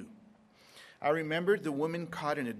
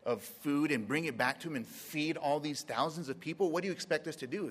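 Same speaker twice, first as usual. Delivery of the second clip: smart-aleck disciples; 3 semitones higher than usual. Retold or imitated. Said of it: "kinda like smart alecks".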